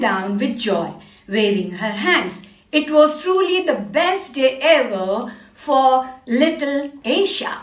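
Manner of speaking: slow, measured English storytelling; story reading for children. Acted. Teacher reading Aisha's story to young pupils, slow story narration. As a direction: read it out slowly, phrase by phrase.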